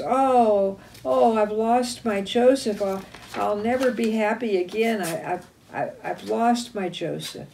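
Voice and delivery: mildly acted moan of grief; mock wailing.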